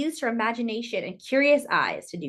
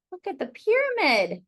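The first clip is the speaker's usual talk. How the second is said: higher, eager look-at-this; excited pointing; 6 semitones higher, 3 dB louder than usual. Real, not acted. Showing children the picture, excited call. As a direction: bubble over pointing at the page.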